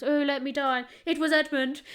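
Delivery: breathy theatrical deathbed plea; dramatic dying voice. Retold or imitated. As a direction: gasp it out like a dying heroine. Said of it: "she goes".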